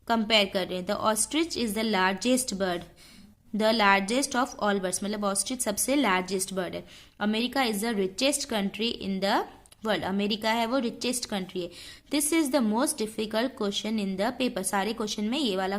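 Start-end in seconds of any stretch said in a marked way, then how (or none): 0.9-5.0 slow, deliberate dictation read. Shown as a demonstration. Teacher dictating the rule slowly to students. 7.2-10.0 slow, deliberate dictation read. Shown as a demonstration. Teacher dictating the rule slowly to students. 12.1-14.6 slow, deliberate dictation read. Shown as a demonstration. Teacher dictating the rule slowly to students.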